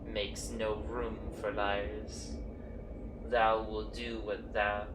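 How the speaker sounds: a hint of a grave forest spirit, speaking thee and thou; understated archaic courtly voice, measured and grave; archaic tree voices. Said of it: "You don't talk like that".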